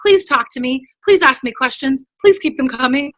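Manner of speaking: welcoming. Retold or imitated. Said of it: "welcome them with open arms".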